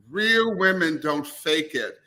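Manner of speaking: slow, deliberate commercial tagline; ad slogan read. Retold or imitated. Cohost mocking the commercial's tagline, slow ad-voice read. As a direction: intone it like a TV spot slogan. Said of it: "That's a real commercial".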